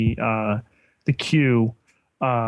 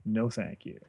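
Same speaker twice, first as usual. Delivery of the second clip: dry; 7 dB quieter, slower than usual. Retold or imitated. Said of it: "I was like".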